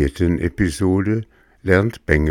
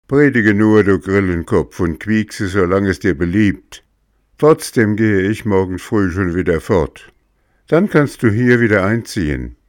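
put-on cheeky boy; 2 semitones higher than usual. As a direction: talk back like a brat. Puppet boy answers defiantly.

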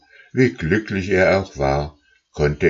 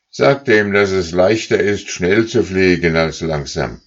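leader goose calling; 3 semitones higher, 5 dB louder than usual. Acted. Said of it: "rief die Führergans".

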